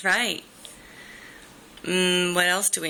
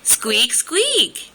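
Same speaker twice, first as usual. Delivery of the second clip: squeaky mouse voice, rising higher; mouse squeak; 6 semitones higher than usual. Pretend. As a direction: squeak up high like a tiny mouse. Mom demonstrates mouse sound.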